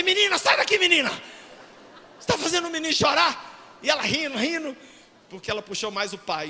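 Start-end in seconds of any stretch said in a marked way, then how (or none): 0.0-3.8 higher, lightly raised mock rebuke; mock scolding. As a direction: shoo the cheeky girl away. Father scolds laughing daughter.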